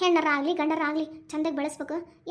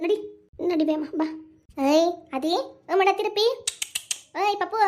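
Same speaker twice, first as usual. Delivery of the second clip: put-on baby talk. Cooing to a baby.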